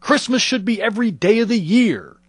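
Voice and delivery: loud, high angry father quote; retold angry outburst. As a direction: bark it like a raging dad. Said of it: "explode at us".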